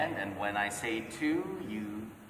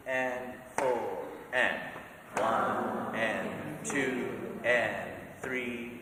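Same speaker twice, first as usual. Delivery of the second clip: slow counting; 2 semitones lower, slower than usual. Shown as a demonstration.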